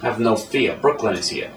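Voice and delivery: playful Brooklyn New York accent; tough-kid New York accent bit. Shown as a demonstration. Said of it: "That's a New York accent".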